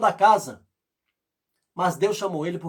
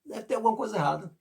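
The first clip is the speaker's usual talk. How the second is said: Gideon pleading; 3 semitones higher than usual. Retold or imitated. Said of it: "ele disse".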